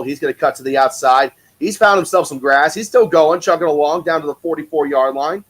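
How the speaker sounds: lively sportscaster call, building as the runner breaks free; play-by-play. Acted. Streamer calling the Battlehawks drive for chat, play-by-play. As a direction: narrate each snap like a broadcaster.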